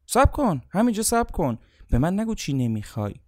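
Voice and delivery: sharp stop. Acted. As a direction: halt them mid-sentence, forcefully. Coach stops the speaker again.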